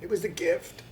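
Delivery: unvoiced whisper. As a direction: hush it like a secret. Whispered joke.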